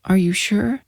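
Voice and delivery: put-on high, hushed, dazed boy; eerie child voice. A narrator's reading. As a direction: say it like a child in a trance.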